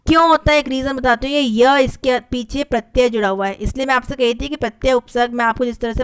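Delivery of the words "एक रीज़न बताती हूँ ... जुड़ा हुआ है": ordinary delivery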